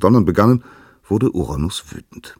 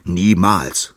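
shouting; 3 semitones higher, 5 dB louder than usual. Acted. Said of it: "schrie Uranus".

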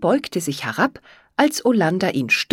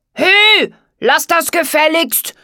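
high, loud, angry squawk; outraged frog voice; furious frog croak; 11 semitones higher, 6 dB louder, slower than usual. A narrator's reading. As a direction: squawk it indignantly, pitched way up. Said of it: "quakte er wütend".

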